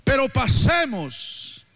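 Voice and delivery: preaching. Real, not acted. Preacher relaying Jesus' invitation to cross over, fervent preaching. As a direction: drive each repeated phrase home to the congregation.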